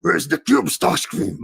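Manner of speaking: husky robot-villain impression; Megatron. Coach giving an example of gravelly voice, villain impression. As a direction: rasp it like a cartoon villain.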